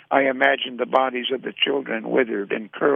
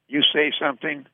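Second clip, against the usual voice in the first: sleepy croak; 4 semitones higher than usual. Acted. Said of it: "Willie Mack's sleepy voice croaked".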